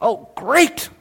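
small, high squeak of dread; comic, softly high-pitched dismay. Acted. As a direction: squeak out the 'no' as if caught. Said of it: "the woman's like".

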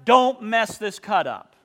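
put-on a boss firmly warning the young carpenter; stern warning. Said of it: "he told me explicitly".

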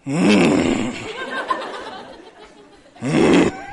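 terse closed-mouth hum; mock displeased grunt; disapproving mm. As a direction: hum disapproval instead of speaking. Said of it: "The quieter they are".

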